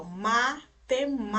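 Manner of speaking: matemática with a long, strong opening MA, split from temática; stress on first MA. Shown as a demonstration. Teacher voicing a pupil's doubt, heavy first MA in matemática. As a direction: lean loudly on the first "ma" of matemática. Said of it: "esse mar de matemática, ele é forte".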